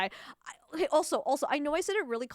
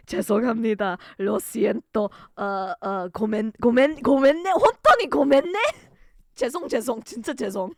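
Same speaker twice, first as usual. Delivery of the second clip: over-the-top apology; 9 dB louder, much faster than usual. Acted. Piled-up mock-desperate apologies in several languages.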